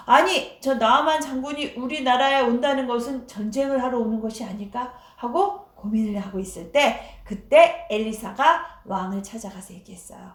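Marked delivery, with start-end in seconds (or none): 0.1-4.9 a burst of alarm on 아니, then worried musing; the king, caught off guard by the news; startled king. Acted. King reading Naaman's letter, startled and worried. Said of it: "깜짝 놀랐어요".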